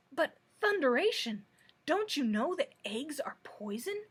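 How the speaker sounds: loud roaring panic. Acted. The king roars in terror at the hen about eggs. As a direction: bellow it in terror. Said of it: "roared the king".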